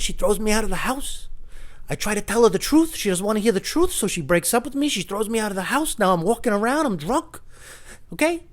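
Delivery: high-pitched mock despair; drunk man's lament.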